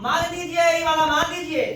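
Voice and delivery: mildly acted king's plea to Karna; Shalya urging Karna. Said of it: "कान के बोला कि". (शल्य की हल्की नाटकीय विनती)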